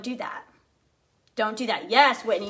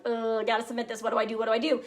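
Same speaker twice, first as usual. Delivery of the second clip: retold mild panic; 2 semitones lower, 4 dB quieter, faster than usual. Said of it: "I'm freaking out".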